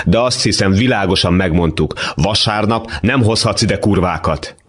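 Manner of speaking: a hint of a shrill landlady scolding her son; mother scolding late son at Sunday lunch, stern. Mother insults the girl.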